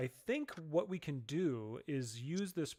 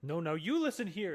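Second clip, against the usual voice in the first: higher, louder, indignant; raised voice; 5 semitones higher, 8 dB louder than usual. Acted. Girl rounding on the stranger, voice raised. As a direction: snap back at him, voice raised. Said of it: "she kinda raises her voice".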